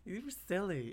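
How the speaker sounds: very soft, coy murmur; flirty teasing. Acted. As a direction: tease quietly, playing hard to get. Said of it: "It's flirting".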